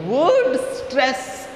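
"word stress" stressed, "word" punched high; emphatic word stress. Shown as a demonstration. Teacher catching students' attention, stressing "word stress". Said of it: "I have given the stress".

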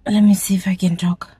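testing the voice in a whisper; careful unvoiced test whisper. Real, not acted. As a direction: whisper carefully to see if talking works. Testing voice through hiccups.

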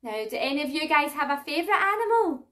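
bright sing-song for little ones; reading to a toddler. Acted. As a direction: talk to toddlers, lively and clear. Toddler music class presenter voice.

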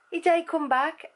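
high Black Country lilt rising on "back"; Black Country dialect, going up at the end; sing-songy Black Country accent. Shown as a demonstration. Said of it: "sing-songy accent".

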